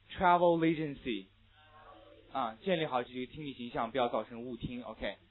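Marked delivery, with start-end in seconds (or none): 0.1-1.3 "travel agency" slow and loud, l joined to the following vowel; linked reading. Shown as a demonstration. Teacher drilling an unfamiliar exam phrase, slow linked reading. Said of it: "Read after me".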